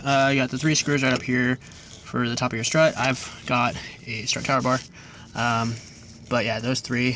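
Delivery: talking while short of breath; slightly winded, breathing between phrases. Real, not acted. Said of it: "Sorry, I'm out of breath".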